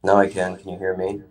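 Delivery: echoey bathroom sound; big hall echo. Real, not acted. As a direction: voice bouncing off tiles. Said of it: "you sound a little echoey".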